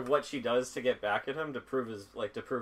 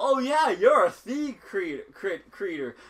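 mock stupid-sounding voice, higher and louder; 7 semitones higher, 6 dB louder than usual. Retelling a cartoon scene, imitating a character's dumb redneck voice. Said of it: "It's changing her voice to, like, a stupid person".

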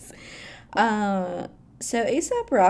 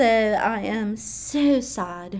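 very slow, bad fake British accent. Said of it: "That was a horrible British accent".

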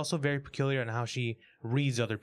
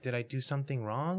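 put-on innocent tone, quieter; 3 dB quieter than usual. Retelling what a woman asked when worried, imitating innocent questioning. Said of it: "she says it in such an innocent, just questioning".

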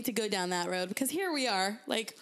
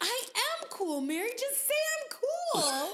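very high, drawn-out, slow, insistent pleading tone; 12 semitones higher than usual. Imitating what he says at the pool: imitating Tim insisting he's cool. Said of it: "That's what he says to me at the pool".

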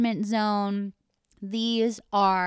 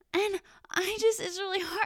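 very high, put-on tearful fake crying voice; 11 semitones higher, 4 dB quieter than usual. Retelling how Sarah answered when pulled aside, imitating Sarah's fake crying voice. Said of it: "starts to get like the crying voice without any tears coming out".

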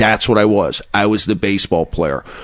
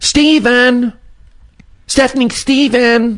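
put-on yelling, pitched much higher than normal; 4 dB louder than usual. The interviewer imitates the guest's mother, mimicking her high-pitched yelling. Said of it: "her with her high-pitched voice".

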